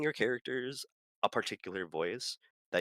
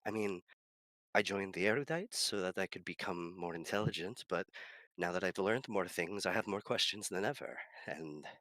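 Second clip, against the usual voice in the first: lightly voiced scholar, musing; a thoughtful Erudite pondering aloud; character voice; 4 semitones higher than usual. Player voicing his musing character. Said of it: "I love this character".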